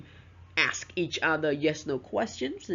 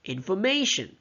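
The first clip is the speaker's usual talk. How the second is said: "information" with MA lifted high, then falling; "information", punching its third syllable; stress on third syllable; 3 semitones higher than usual. Shown as a demonstration. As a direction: lean on the "ma" in "information". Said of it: "stress on the third syllables".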